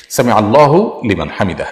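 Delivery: "আল্লাহু" with the hu sounded, then "লিমান"; correct pronunciation. Shown as a demonstration. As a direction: model "সামি আল্লাহু লিমান হামিদা" carefully. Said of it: "এভাবে বলতে হবে". ("আল্লাহু" হু সহ স্পষ্ট উচ্চারণ)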